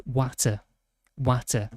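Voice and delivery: "water" with a short A and clear T, like "watter"; Yorkshire "water", rhyming with "matter"; Yorkshire pronunciation. Shown as a demonstration. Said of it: "we say water as water".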